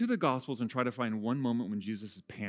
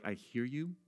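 soft, reassuring pastor voice, trailing quieter; 5 dB quieter than usual. Retold or imitated. Pastor assures a struggling person, soft and calm. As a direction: gently assure them you understand. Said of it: "this really great face".

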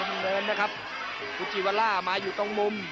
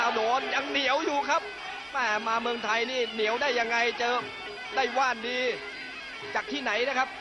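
excited boxing commentary; 4 semitones higher than usual. Real, not acted. Live call of punches landing.

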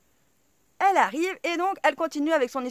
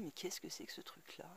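feigned ignorance; 8 semitones lower, 22 dB quieter than usual. Retold or imitated.

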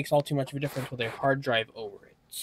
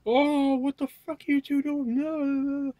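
high-pitched mock mom yelling at the cats; imitating mom; 13 semitones higher, slower than usual. Mom woken at night by fighting cats, high mock yell. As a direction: squeak it out like a startled mom, way up high. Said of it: "My mom was like".

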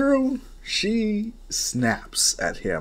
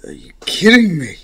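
much louder, higher outburst of disbelief; exasperated shout; 6 semitones higher, 13 dB louder than usual. Acted. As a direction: explode in disbelief. Boss explodes at lost target.

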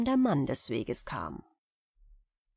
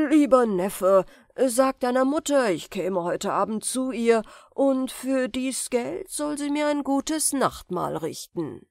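louder, sweet-talking sorcerer; fake uncle; 5 semitones higher, 4 dB louder than usual. The sorcerer sweet-talks his nephew, falsely kind. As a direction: coax with false kindness.

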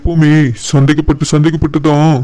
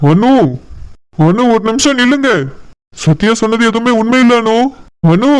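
urgent plea; 4 semitones higher than usual. Acted. Pleading wife to stop.

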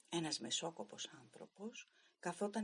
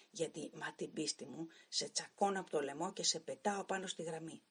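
1 trembling with anger. Acted. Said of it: "τρέμοντας από το θυμό μου".

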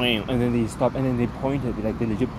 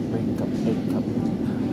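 whisper; much slower than usual. Real, not acted. Unvoiced slow words.

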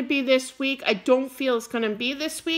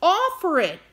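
emphatic urging; 5 semitones higher, 4 dB louder than usual. Real, not acted. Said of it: "I'm getting wound up".

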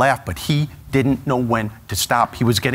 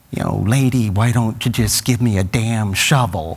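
slow, lightly voiced Nicholson wisecrack; deadpan it slow like a little Nicholson; tough-guy Nicholson; 3 semitones lower, slower than usual. Son to the waitress, slow Nicholson wisecrack. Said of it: "get into the act".

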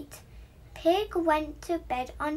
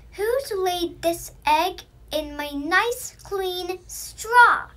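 rising to a loud high squeal on straw; oinking pig; 4 semitones higher, 7 dB louder than usual. A narrator's reading. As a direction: oink it out, squealing at the end. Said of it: "he oinked".

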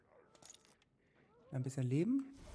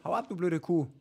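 louder, telling her to scram; annoyed yell; 2 semitones higher, 7 dB louder than usual. Real, not acted. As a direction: snap it at the screen. Yelling at game enemy.

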